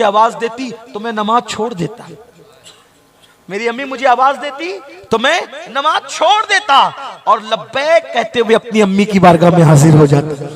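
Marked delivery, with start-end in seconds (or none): 3.5-10.5 impassioned cry. Acted. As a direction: repeat the line and throw it out to the crowd. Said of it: "तो आका फरमाते". (ऊँची, ज़ोरदार आवाज़ में जोशीला दोहराव)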